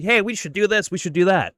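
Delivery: hammed-up pleading of an online nobody; mock internet screamer. Host mimics some guy on the internet, mock yelling in a high voice. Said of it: "screaming at the top of his lungs".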